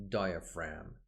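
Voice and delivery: "diaphragm" with the G silent, ending like "fram". Shown as a demonstration. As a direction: say "diaphragm" as DIE-a-fram, no G sound. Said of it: "this G here is not pronounced".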